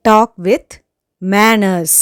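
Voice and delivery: firm, loud command; angry demand. Shown as a demonstration. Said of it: "கோபத்தோட பேசுறதுக்கு".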